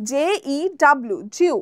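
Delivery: জিউ said as a glided "jiu" instead of zoo; মিসপ্রোনাউন্সড জিউ; wrong zoo pronunciation. Shown as a demonstration. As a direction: give জিউ a "jiu" glide, the common mistake. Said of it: "জুকে অনেকে জিউ বলে".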